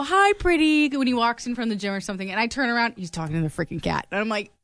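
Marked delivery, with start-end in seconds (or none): 0.0-0.9 mock cat greeting. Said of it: "He'll go".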